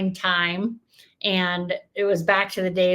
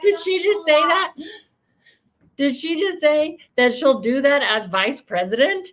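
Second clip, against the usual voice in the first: higher, laughing through the words; laughing disbelief; 7 semitones higher than usual. Real, not acted. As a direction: ask through real laughter, stunned.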